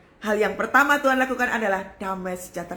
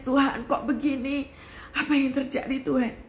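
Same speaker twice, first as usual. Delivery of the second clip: retold tearful prayer; 3 semitones higher than usual. Woman finding her kitchen collapsed asks God why, mildly tearful. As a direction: re-enact a bewildered plea to God. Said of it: "Saya nangis".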